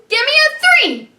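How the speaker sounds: put-on high, loud, fast call to the kids. Calling for a number.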